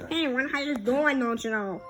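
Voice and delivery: mild Minnesota lilt; a hint of Minnesota nice; Minnesota accent. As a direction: Minnesota accent, don't you know. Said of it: "Would you stop saying, "don't you know".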